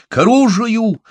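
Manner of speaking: very high, loud battle cry; shouted warning to arms, high and loud; shouting. A narrator's reading. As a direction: sound the alarm at full voice. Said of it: "успел выкрикнуть он".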